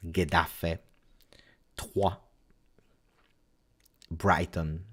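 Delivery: usual speaking voice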